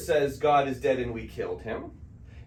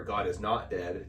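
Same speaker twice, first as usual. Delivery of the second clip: not leaned on, slow and a bit softer; slow it down and hit not; stress on not; 5 semitones lower, 4 dB quieter, slower than usual. Retold or imitated. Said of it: "they had a movie".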